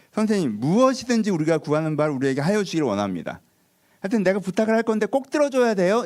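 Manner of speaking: 높아지며 꼭 들어달라고 조르기; 스승에게 부탁을 밀어붙이는 제자 흉내; 조르는 제자. Retold or imitated. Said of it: "이렇게 시작해요". (점점 높아지며 조르는 말투)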